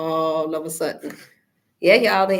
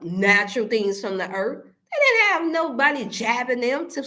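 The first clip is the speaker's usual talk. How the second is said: choked up, pitch rising; tearful; 4 semitones higher than usual. Real, not acted. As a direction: voice catching with tears. Emotional rant on history.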